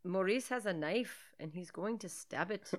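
lightly faked Irish lilt; Irish accent attempt. Friend narrating the film plot, shaky-footed Irish accent attempt. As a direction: try an amateur Irish accent. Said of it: "tried to talk in an Irish accent".

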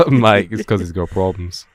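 mock British accent. Joking about the absent friend, in mock British accent. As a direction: keep up the British mate impression. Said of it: "I've been practicing my accent".

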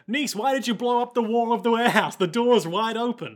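high-pitched alarmed question; Nick. Acted. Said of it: "Nick is like".

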